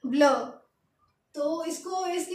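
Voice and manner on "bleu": ब्ल said as French bleu, rounded short vowel; French pronunciation of ब्ल. Shown as a demonstration. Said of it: "क्या पढ़ेंगे?".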